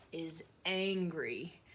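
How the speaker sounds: "angry" drawn out slow; slow stress on angry. Shown as a demonstration. Teacher slowly stressing "angry" for the class. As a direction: stretch out "angry". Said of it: "teacher stresses word angry".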